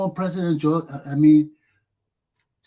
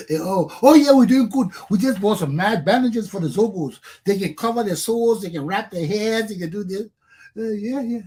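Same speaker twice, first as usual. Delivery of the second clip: sarcastic boasting; 3 semitones higher than usual. Retold or imitated. Mocking the government bragging about bandages, sarcastic cheer. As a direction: play the smug official.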